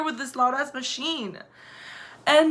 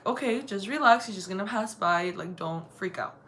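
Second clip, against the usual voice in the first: quiet self-reassurance, sinking lower and softer; self-calming; 3 semitones lower, 3 dB quieter than usual. Retold or imitated. Woman telling herself to relax as a man approaches, self-calming. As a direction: talk yourself down under your breath. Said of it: "trying to calm myself down".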